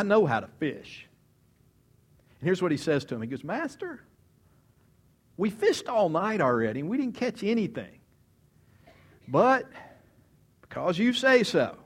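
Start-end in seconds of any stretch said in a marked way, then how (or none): 3.4-11.8 higher, protesting fisherman's reply; weary Peter. Retold or imitated. Peter answers Jesus after a fruitless night, higher protest. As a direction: push back, tired but giving in.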